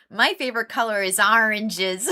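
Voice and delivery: loud, ORANGES opening on "AR"; playful regional vowel on ORANGES; imitated American orange. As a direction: show off ORANGES as AR-inges. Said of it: "how some Americans say orange".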